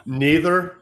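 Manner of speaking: blurted out through a laugh. Real, not acted. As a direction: laugh the word out. Laughing one-word answer to question.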